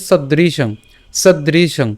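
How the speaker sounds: "সদৃশং" said carefully with a falling close; pronunciation model. Shown as a demonstration. Teacher showing learners the first word, careful "সদৃশং" with nasal ending. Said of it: "এর উচ্চারণটা কেমন হচ্ছে?".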